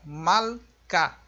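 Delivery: Malka, dito devagar com o a bem aberto; Malka spoken. Shown as a demonstration. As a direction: pronuncie Malka claramente. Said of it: "aqui esta palavra". (pronúncia de Malka)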